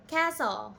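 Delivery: castle with a silent T, "KASS-ul"; model pronunciation. Shown as a demonstration. Teacher models the word castle for learners, silent T. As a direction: say castle cleanly, no T sound. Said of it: "try to repeat that".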